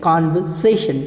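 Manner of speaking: कन्वर्सेशन as kanvaseshan, R silent; correct pronunciation. Shown as a demonstration. Teacher drilling students on the right word, no R. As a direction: give कन्वर्सेशन with an open ka and no R. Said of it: "क्या कहेंगे?".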